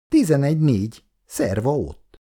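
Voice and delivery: mildly gleeful score call; joyful exclamation. Acted. Icu announcing her point to Halász, joyful. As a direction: call it out with a touch of delight. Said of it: "Icu örömmel felkiáltott".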